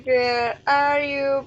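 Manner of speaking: long loud searching call. Real, not acted. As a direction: stretch the call out to find her. Calling for missing friend.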